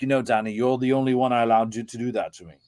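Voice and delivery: proper upper-class English voice; upper-class English accent. Retold or imitated. Friend indulging Danny, in an upper-class English accent. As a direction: imitate a Queen's English speaker. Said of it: "that's like an upper class accent".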